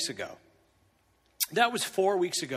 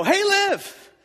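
nonchalant; 9 semitones higher, 8 dB louder than usual. Retold or imitated. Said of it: "I'm just nonchalant".

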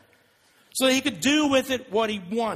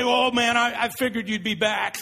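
mock scornful father; 2 semitones higher than usual. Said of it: "He doesn't say".

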